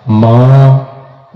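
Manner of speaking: long drawn-out low wailing call; calling mother. Acted. Son in hell calls out to his mother, drawn-out low wail. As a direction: stretch the word माँ into a slow low wail. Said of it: "अब आवाज देगा".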